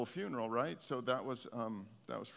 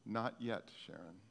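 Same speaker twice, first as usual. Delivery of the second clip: tender, intimate call; 3 dB quieter than usual. Retold or imitated. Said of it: "there's a familiarity there".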